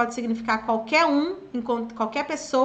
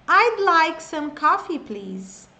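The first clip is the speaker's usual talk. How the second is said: slow and a bit louder; slow model sentence; 4 semitones higher, 3 dB louder, much slower than usual. Shown as a demonstration. Teacher giving a listen and repeat line, slowly. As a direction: say it slowly for students to copy. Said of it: "Listen and repeat".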